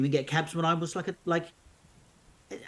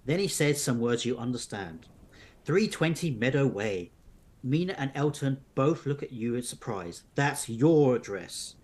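measured storybook narration; narrating an unfolding mystery tale; story narration; slower than usual. A narrator's reading. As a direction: read the adventure aloud to listeners. Reads the story on.

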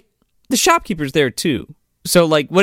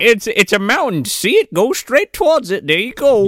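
higher-pitched put-on patience; mock condescension; 5 semitones higher than usual. Shopkeeper directing a lost customer to Devil's Peak, mock condescending.

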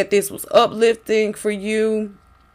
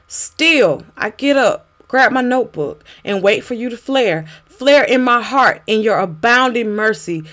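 spoken word poem; 2 semitones higher than usual. Acted. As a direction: perform it as a pleading poem.

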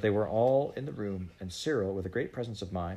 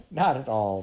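hearty, louder, lifted reassurance; heartily; 4 semitones higher, 7 dB louder than usual. A narrator's reading. Missus Biddle waves away the boy's thanks, heartily. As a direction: brush off the thanks with hearty good cheer. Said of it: "said Missus Biddle heartily".

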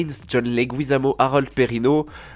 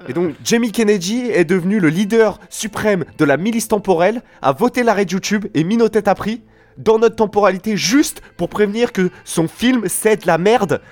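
exasperated rant; 8 semitones higher, 4 dB louder than usual. Acted. Continues angry rant at friends.

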